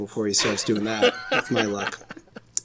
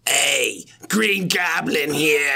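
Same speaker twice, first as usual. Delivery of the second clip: slow, strained Green Goblin cry; raised, drawn-out goblin impression; Willem Dafoe; 4 semitones higher, much slower than usual. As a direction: put on a hammed-up villain voice. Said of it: "I do a Willem Dafoe voice".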